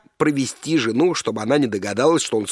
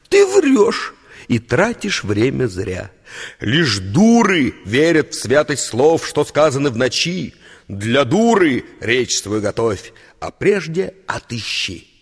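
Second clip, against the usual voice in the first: slow, lightly voiced scornful girl; a hint of a cold girl brushing him off; girl's voice; 4 dB louder, slower than usual. Scornful girl rejecting a confession, lightly voiced. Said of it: "Сказала девушка".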